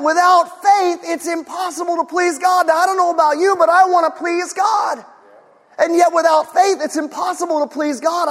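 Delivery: emphatic preaching. Real, not acted. Repeats Hebrews with force.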